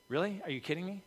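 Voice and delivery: a hint of Jesus rolling his eyes at the disciples; exasperated disbelief.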